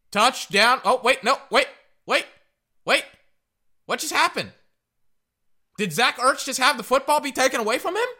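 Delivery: cheer, then stop dead; shocked disbelief. Real, not acted. Touchdown overturned, disbelief.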